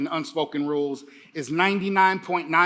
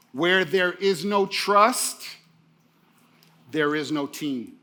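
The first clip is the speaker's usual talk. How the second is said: slow quotable line; slower than usual. Shown as a demonstration. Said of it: "Tweet that".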